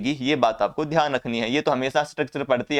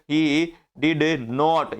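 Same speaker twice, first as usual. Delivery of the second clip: he did not, said very slowly with not hit; stress on not; much slower than usual. Shown as a demonstration. Teacher showing students where not goes, slow and stressed. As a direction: spell it out word by word and land on not. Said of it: "तीसरे number पे हमने not चिपका दिया".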